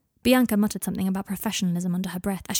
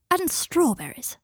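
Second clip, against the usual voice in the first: slow, much higher, teasing; playful request; 9 semitones higher, 4 dB louder, slower than usual. Acted. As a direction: draw it out sweetly. Draco adds to order.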